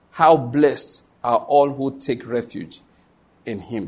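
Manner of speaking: slow, weighty reading with long pauses; solemn scripture reading. Acted. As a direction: read it out phrase by phrase, deliberately. Reads scripture aloud to congregation.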